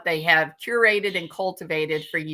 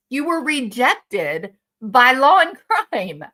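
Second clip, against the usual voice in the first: building angry rant; 4 semitones higher, 4 dB louder than usual. Real, not acted. Ranting at a rival streamer.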